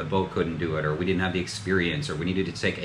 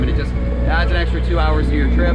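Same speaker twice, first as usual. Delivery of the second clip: raised voice over the wind; shouting over wind; 9 semitones higher, 9 dB louder than usual. Real, not acted. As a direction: talk loud over the roaring wind. Talking over wind at sea.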